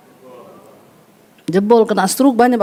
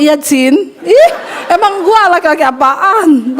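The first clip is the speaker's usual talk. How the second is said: mock effeminate man; 3 semitones higher, slower than usual. Men mocking effeminate reply.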